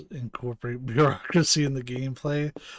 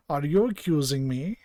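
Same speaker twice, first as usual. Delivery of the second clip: put-on rough German accent for the doctor. Doctor challenged by police questions, mild German accent. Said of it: "German accent for Clamp".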